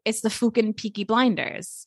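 lightly put-on Peaky Blinders accent. Shown as a demonstration. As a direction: say it as an audition prompt, lightly accented. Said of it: "audition now? Say".

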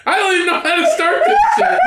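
laughing exclamation. Real, not acted. Friend can't start the story for laughing. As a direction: cackle it out, losing it.

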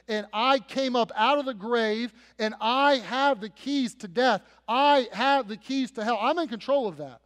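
loud, driving, emphatic preaching; forceful voice of authority as the risen Christ; triumphant declaration. Acted. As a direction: proclaim mastery, hitting each claim hard.

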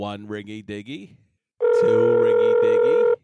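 phone operator voice. Pretend. Mock phone operator answering.

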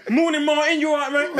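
mock chirpy greeting. Mocking how a friend greets the office, chirpy and hammed up. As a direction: ham up a chirpy walk-in greeting. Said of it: "How he walks in".

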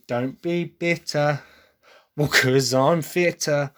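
natural English pronunciation, said slowly; English accent. Shown as a demonstration. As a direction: show the rhyme in an English accent, drawn out. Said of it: "'Cause obviously for an English person".

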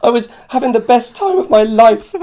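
high, loud, incredulous retold lament; comic outburst of disbelief; exasperated mock wail. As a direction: protest your rotten luck at full pitch. Retells his dismay while sick.

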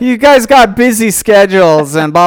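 gushing fan. Acted. Acts out an imagined fan message.

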